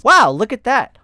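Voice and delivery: high, loud, wide-eyed wow; excited cry. A narrator's reading. A canine watching the unicorn, crying out excitedly. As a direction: gasp it out in awe. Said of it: "one canine cried".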